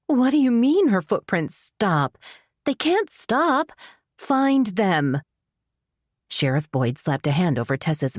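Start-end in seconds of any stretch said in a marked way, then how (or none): 0.0-5.2 high, frantic and pleading; shrill panic. Acted. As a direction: voice climbing in panic. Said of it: "she'd been growing shrill".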